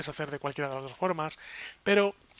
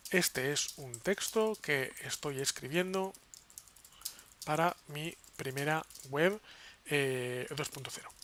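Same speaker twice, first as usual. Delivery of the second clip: slow, softer typing-along voice; dictating while typing; 6 dB quieter, slower than usual. Real, not acted. Teacher typing sample web text for the class, slow dictation. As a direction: say it piece by piece as you type. Reads aloud what he types.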